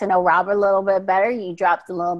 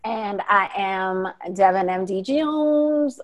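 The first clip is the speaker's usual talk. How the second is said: tired, slow name; 3 dB quieter, slower than usual. Real, not acted. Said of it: "Oh, let's try that again".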